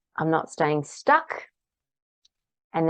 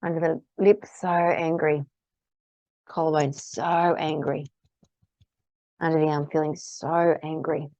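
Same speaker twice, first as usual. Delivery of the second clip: tapping statement. Shown as a demonstration. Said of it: "stating what the emotion is".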